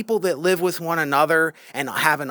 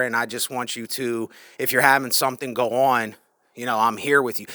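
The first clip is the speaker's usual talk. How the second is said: softened, sincere check-in; genuinely meaning it; 2 semitones lower, faster than usual. Acted. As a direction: gently offer someone your company. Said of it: "they really mean it".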